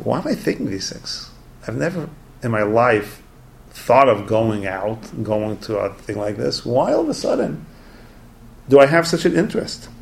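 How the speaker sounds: puzzled self-questioning, pitch leaping on the whys; wondering chassid. Retold or imitated. Chassid questioning his sudden interest in a cafe, wondering. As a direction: wonder aloud at your own sudden urge. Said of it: "the chassid is wondering".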